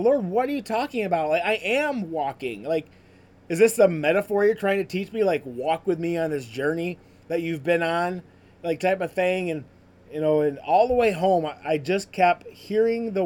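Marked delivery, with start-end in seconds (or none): 0.0-9.5 frustrated complaint. Retold or imitated. Runner complaining to the Lord mid-walk, exasperated and fast. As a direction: protest to God, baffled and fed up. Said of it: "I was so frustrated".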